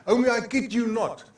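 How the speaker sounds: put-on high, loud, building insistence as a child; child impression, rising to a loud finish; imitated grandchild. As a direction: imitate a granddaughter testifying excitedly. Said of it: "That's how she said it".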